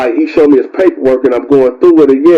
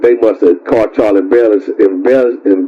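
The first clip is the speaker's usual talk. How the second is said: tongue-tied stumble; 4 semitones lower than usual. Real, not acted. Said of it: "Y'all know that I'm tongue-tied".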